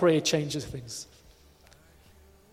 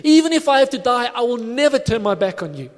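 earnest vow; 3 semitones higher than usual. Acted. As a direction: swear loyalty as an eager disciple, voice lifted. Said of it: "he was genuine when he meant it".

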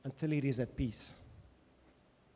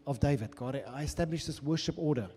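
impassioned plea as David to God; voicing David's lament; 5 dB louder than usual. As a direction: cry out to God as the fallen king.

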